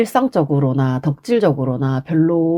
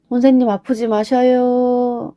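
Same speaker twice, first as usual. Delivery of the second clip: 울먹이며; 6 semitones higher than usual. Real, not acted. 아픈 선생님 걱정하며.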